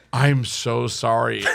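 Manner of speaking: low, slow apology; retold apology. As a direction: draw out a mock-contrite sorry. Retold apology to injured friend.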